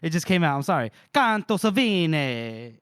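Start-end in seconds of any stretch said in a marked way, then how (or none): 1.1-2.8 put-on slow hammy Italian accent. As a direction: savor it like an Italian. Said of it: "caught up in the Italian accent".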